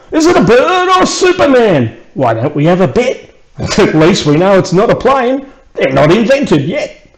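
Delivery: high, excited crowd voice with a laugh; a gawking bystander shouting up at the sky; excited townsfolk. Acted. Crowd in the street shouting guesses.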